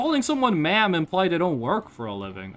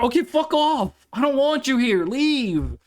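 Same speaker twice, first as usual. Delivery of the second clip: higher-pitched, exasperated send-off; fed-up dismissal; 4 semitones higher than usual. Acted. Streamer telling a racist to go, exasperated. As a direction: shoo them away, fed up. Acted rejection of racist stranger.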